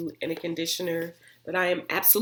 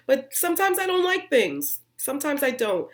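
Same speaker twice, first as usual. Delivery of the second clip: ordinary talk, nothing marked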